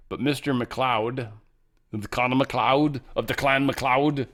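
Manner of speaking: slow, drawn-out mock Scottish Highlander announcement; mock Highlander intro. Hamming up Highlander for fans, slow mock Scottish. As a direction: draw out Mister McLeod like the Highlander film, Scottish. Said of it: "that was for you".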